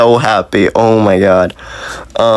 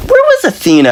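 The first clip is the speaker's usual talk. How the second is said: baffled outcry. Retold or imitated. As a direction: demand it at the screen. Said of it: "I'm like".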